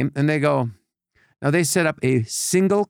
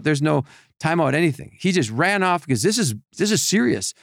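normal talking voice

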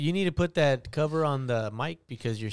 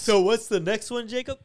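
mock high voice; 6 semitones higher than usual. Mocking Jacob's voice.

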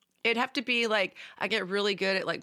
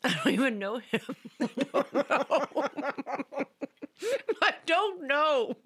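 laughing; 3 semitones higher than usual. Real, not acted. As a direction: laugh out an embarrassed answer. Giggling, unsure about Bilbo question.

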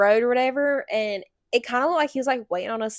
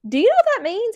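pitched up high and loud in disbelief; astonished question; 12 semitones higher, 7 dB louder than usual. Retold or imitated. Mother stunned by her son's slang, high and loud. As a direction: ask it up high, amazed.

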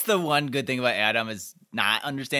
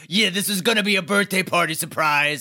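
imitating an excited crowd, higher pitched; mock party surprise; 5 semitones higher, 3 dB louder than usual. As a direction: ham up a surprise-party cheer. Mock surprise party shout in retelling.

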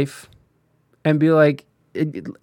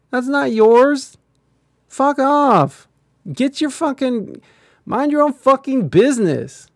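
rising furious rant, much higher and louder; yelling at meddling strangers to mind their business; angry rant; 8 semitones higher, 3 dB louder than usual. Real, not acted. Streamer to pro-life judges, furious rising yell.

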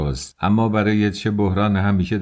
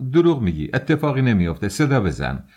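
higher-pitched, defiant outburst; shouting back; 3 semitones higher than usual. Acted. Young man daring investigator to call out, defiant raised voice. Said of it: "فریاد نزن".

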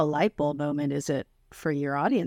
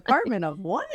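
mock bewilderment; 4 semitones higher than usual. Mimicking confused callers given agency number.

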